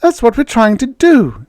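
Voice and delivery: Judy snapping at the men over the radio. Acted. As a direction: snap back at him. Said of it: "Judy snapped".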